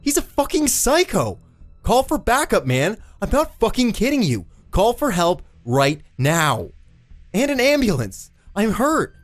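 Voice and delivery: very high, frantic shout; desperate yelling. A narrator's reading. Eddie begs the cop to call backup, desperate yelling. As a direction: yell for help with rising desperation. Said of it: "all the effort of standing and yelling".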